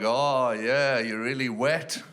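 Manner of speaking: mildly acted, slow dirty talk; unenthused, drawn-out remark; disinterested lifeguard. Shown as a demonstration. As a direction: attempt dirty talk with little interest. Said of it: "Just sound like a disinterested lifeguard".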